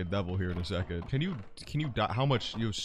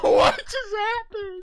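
whiny cry; 7 dB louder, slower than usual. Real, not acted. Sudden death.

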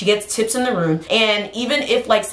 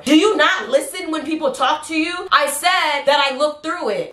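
mom voice; 6 semitones higher than usual. Retold or imitated. Mom arguing back.

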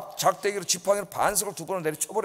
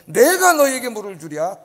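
proud boast; 3 semitones higher, 6 dB louder than usual. Retold or imitated. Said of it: "교만해진 거예요".

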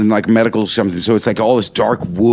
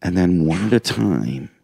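soft, low voice sinking into a whisper; hushed conspiring; 5 semitones lower, 7 dB quieter than usual. Retold or imitated. Comic conferring with friends during the play, hushed and conspiratorial. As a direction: murmur the plan secretly. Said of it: "lean in and just go like this to each other".

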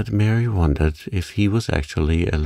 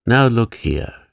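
louder, sharp rebuke; 5 semitones higher, 5 dB louder than usual. A narrator's reading. Old gardener snapping at the girl, sharp and louder. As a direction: cut her off crossly. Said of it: "he said sharply".

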